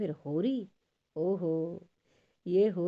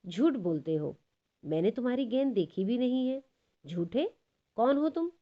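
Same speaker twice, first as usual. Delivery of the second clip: mock angry shout; 5 semitones higher than usual. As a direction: pretend to be furious with the boy. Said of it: "वो वधू चिल्लाई". (बनावटी गुस्से में चिल्लाना)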